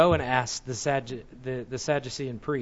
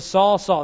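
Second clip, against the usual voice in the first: both names raised and louder, falling at the end; emphatic double call; 4 semitones higher, 5 dB louder than usual. Shown as a demonstration. Preacher voicing God calling Saul twice. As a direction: ring out the name twice like a summons. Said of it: "That's the double vocative there".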